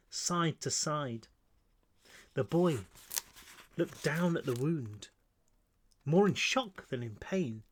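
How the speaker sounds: measured, grave reading of a dark scene; hushed storyteller pacing through a tragedy; story narration. A narrator's reading. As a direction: read it like an audiobook narrator. Author reads own novel aloud.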